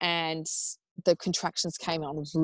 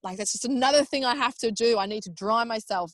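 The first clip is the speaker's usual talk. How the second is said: high, whiny complaint about being wet; hammed-up fussy moan, pitched up; mock whine; 5 semitones higher than usual. Mother in labour refusing the shower, mock whiny. Imitating herself whining in labour.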